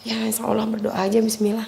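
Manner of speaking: lightly acted weakness, a little soft; weak, drained. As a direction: say it like you're imitating someone with little strength left. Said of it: "Ngomongnya udah lemes gitu".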